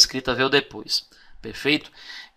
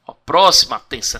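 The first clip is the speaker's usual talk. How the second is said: ordinary talk, nothing marked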